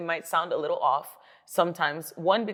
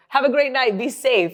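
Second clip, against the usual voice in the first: sweet brush-off; 7 semitones higher, 8 dB louder than usual. Retold or imitated. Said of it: "I'd be like".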